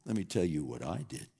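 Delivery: quick, lightly voiced braggart; a hint of a boastful saint; bragging. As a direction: rattle it off like a show-off. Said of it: "we'd be up there bragging".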